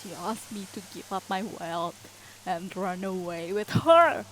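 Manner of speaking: building to a loud roar. Acted. Baron to his children, building to a roar. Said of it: "the Baron roared".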